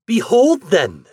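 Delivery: high, loud proclamation; crying out. A narrator's reading. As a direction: announce it grandly. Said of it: "she cried".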